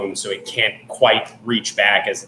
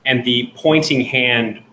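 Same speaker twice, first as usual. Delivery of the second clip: ordinary delivery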